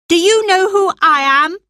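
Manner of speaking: put-on high, loud, fast boyish demand; a spoiled young master asserting rank; imperious demand. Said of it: "the boy demanded".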